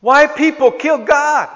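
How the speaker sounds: put-on small child's voice, high and loud; little grandson's question. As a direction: ask like a bewildered four-year-old. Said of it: "he says to his mother".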